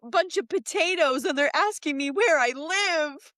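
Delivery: quoting Juliette. Retold or imitated.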